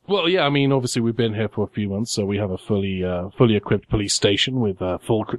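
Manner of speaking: dry, deadpan sarcasm; sarcastic. Acted. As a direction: feign a straight official answer, sarcastically. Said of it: "I understand your sarcasm to Travis".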